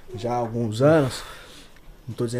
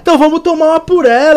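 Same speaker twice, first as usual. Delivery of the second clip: loud toast; 13 semitones higher, 12 dB louder than usual. Real, not acted. Raising a toast to her.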